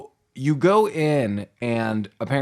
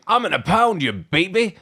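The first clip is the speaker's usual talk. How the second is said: put-on higher teasing baby talk; 6 semitones higher than usual. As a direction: coo it like talking to a baby. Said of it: "He's like".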